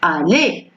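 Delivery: "Aller" ending in a closed é sound; "Aller" as a careful model, ending in é; ER pronounced E. Shown as a demonstration. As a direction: say "Aller" with the R silent. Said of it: "ça prononce E".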